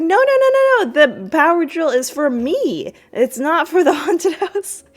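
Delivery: high loud frantic no no no; panicked dad yell. Retold or imitated. Dad stopping kids from taking his drill, frantic high yell. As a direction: blurt it out, protecting the drill. Cliff guarding drill, voiced.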